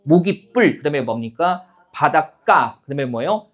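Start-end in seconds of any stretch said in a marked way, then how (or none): 0.0-0.8 모깃불 said as mo-git-ppul, tense pp; 모깃불 with a hard, tensed second part; demonstrated pronunciation. Shown as a demonstration. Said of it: "어떻게 발음되는 거예요". 1.9-2.8 바닷가 said as ba-dat-kka, tense kk; 바닷가 with a hard, tensed last syllable; demonstrated pronunciation. Shown as a demonstration. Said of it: "어떻게 발음되는 거예요".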